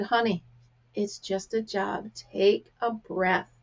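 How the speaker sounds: slow, soothing retold comfort; calm someone down softly and unhurriedly; gentle reassurance. Customer comforts the girl in tears, gently reassuring.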